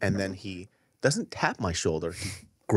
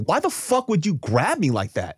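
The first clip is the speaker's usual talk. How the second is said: retold angry demand; 7 semitones higher than usual. Retelling confronting the fan.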